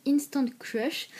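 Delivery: English title in a thick French accent; bad English accent. Real, not acted. Apologising to viewers before an English song title, bad English accent. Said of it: "mon accent anglais pourri".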